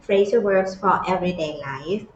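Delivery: each word stretched out for learners; very slow title read. Shown as a demonstration. Teacher to students, announcing the clip, very slow careful reading. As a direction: read the title slowly and clearly. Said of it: "teacher reads the video title".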